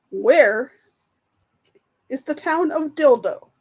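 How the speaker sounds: laugh, then push the question out with pauses; amused reading. Real, not acted. Quiz host reads a silly town name to players, amused and halting.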